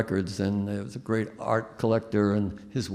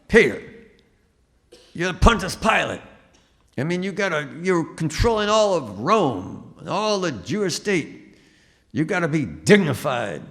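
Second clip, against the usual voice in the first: lightly voiced Earl; 7 semitones higher, 4 dB louder than usual. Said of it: "he said".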